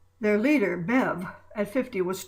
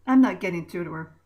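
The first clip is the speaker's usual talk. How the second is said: exasperated; 7 dB louder, faster than usual. Acted. Bev sighs, frustrated.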